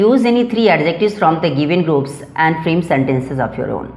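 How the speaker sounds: slow, careful classroom reading of English; slow dictation reading. Shown as a demonstration. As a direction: read the instruction out word by word, very slowly. Teacher reads exercise instruction slowly. (धीमी, साफ़ पढ़ाई वाली आवाज़)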